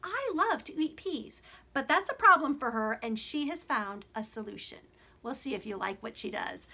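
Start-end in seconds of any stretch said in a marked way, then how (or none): 5.2-6.7 unvoiced stage whisper. Real, not acted. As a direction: whisper it like a secret. Conspiratorial aside to children.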